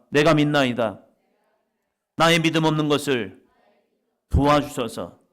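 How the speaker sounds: preacher calling out the verse for all to repeat; loud confession. Shown as a demonstration. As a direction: lead the congregation in the cry. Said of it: "한번 더 합니다".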